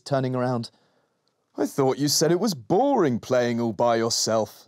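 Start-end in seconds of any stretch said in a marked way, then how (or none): 1.6-4.6 smiling. Acted. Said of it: "smiled Dad".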